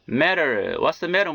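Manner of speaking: 'matter' with T as an R-like tap; American flapped T. Shown as a demonstration. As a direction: flap the T in each 'matter'. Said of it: "연음 현상이 들어가서 이렇게". ('matter'의 T를 ㄹ처럼)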